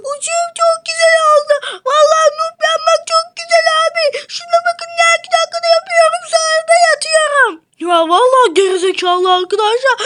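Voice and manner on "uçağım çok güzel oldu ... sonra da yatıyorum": Ahmet'in sesi. Acted. Ahmet karakteri seslendiriliyor.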